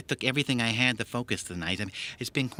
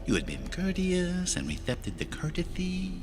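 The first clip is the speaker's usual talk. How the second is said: stage villain tutting at the agent, pitched high; bad Lecter impression; 7 semitones higher than usual. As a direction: overact a fussy cannibal doctor, pitched way up. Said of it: "that voice is bad enough".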